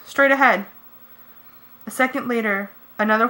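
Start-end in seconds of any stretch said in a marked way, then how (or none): 0.1-0.7 loud, high alarm call; yelling warning. A narrator's reading. Rachel warns Cassie of an enemy ahead, yelling. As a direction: shout the warning at the charging Hork-Bajir. I yelled.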